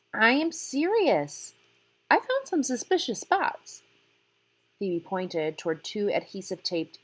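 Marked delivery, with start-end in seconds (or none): 0.1-3.8 higher and louder, slow and urgent; insistent. Acted. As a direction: press the point hard. Phoebe insists to her father.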